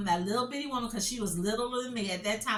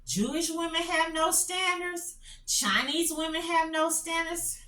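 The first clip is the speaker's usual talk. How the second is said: mock hypothetical quote; 6 semitones higher than usual. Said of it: "Can you imagine somebody say".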